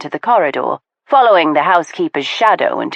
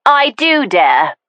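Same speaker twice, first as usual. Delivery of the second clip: stout reply; 6 semitones higher, slower than usual. Acted. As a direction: stand your ground word by word. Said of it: "was the stout reply".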